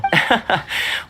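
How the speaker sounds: short amused laugh; light chuckle. Acted. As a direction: chuckle briefly to yourself. Amused after tea house idea.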